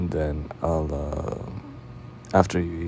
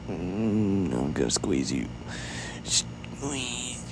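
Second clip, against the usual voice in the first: affectionate squeezing; 3 semitones higher, 4 dB quieter, much slower than usual. Acted. Cuddling someone too cute, squeezing.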